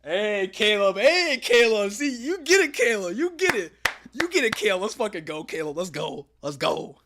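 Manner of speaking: loud, high cheering; excited shouting. Real, not acted. Streamer hailing Caleb for getting it, excited shout. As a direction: shout it out like hyping up a friend.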